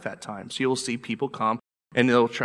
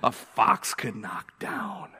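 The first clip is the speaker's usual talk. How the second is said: voice of the enemy; 4 semitones higher than usual. Acted. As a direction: sneer it out, rising at the end. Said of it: "Is it more like Sanballat?".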